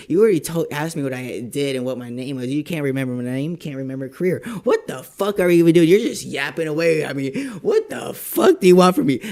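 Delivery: venting mock fury; retold shouting rant. Yelling at the scammer who forgot his name.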